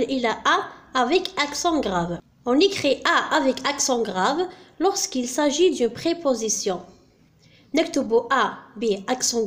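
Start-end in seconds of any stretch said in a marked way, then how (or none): 2.5-6.8 slow, clearly spaced reading of the rule. Shown as a demonstration. Teacher dictating the grammar rule to students, slowly. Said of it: "rule read out".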